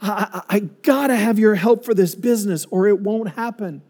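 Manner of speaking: earnest acted prayer, pitch lifting as it builds; bare your soul to God, halting at first, then insistent; vulnerable pleading. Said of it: "been so vulnerable that you say".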